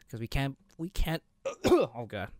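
tired voice breaking after a cough; strained voice giving out. Real, not acted. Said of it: "my voice is starting to give out".

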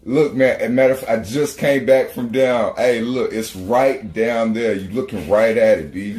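eager, insistent mailman imitation; animated local pointing the way; high-energy directions. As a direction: insist helpfully with lively enthusiasm. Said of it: "one hundred fifty percent energy behind them".

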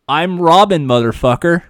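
pitched as a gruff hero one-liner; tough hero catchphrase. Pretend. Catchphrase pitch to his podcast co-host, tough hero voice. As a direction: sell it like a badass intro. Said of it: "I'll hear one pitch".

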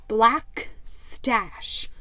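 whispered name, full of menace; hushed dread. A narrator's reading. Narrator whispers the feared pirate's name. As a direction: breathe the name like it's cursed.

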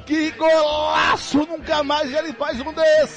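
explosive goal commentary. Real, not acted. Goal praise.

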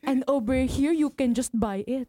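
lightly hammed-up Filipino accent. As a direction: put on a comic Filipino accent. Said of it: "Filipino accents is just so easy to do".

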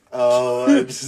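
quoting Luke's joke in a put-on Asian accent; mock Asian accent. Friend retelling Luke's joke in a car, mock Asian accent. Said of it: "making fun of Asian people".

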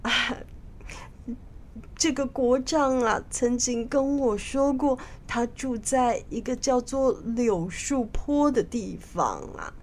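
understated, regretful admission; sigh, then confess with a touch of shame, trailing away; ashamed. Acted. King admitting where the minister lives, mildly ashamed. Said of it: "很惭愧地说".

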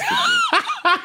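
shouted through a laugh; laugh-yell your disgust. Real, not acted. Mock disgust at Titans seeding.

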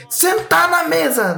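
high, drawn-out parade-ground order; mock drill-sergeant call; military officer's command. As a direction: imitate a soldier yelling an order slowly. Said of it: "tão militar da ativa".

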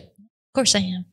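slow, earnest "Of course I am.". Retold or imitated. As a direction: say it slowly, meaning it. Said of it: "But she said it like".

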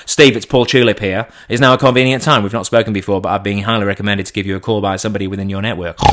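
smooth recruiter patter, mildly put on; full headhunt call. Recruiter pitches to a roofer, headhunt patter. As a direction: reel off the rehearsed opener. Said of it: "full headhunt call".

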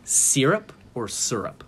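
SYRUP first as SEER-up, then SUR-up; two pronunciations. Shown as a demonstration. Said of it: "that's a big debate".

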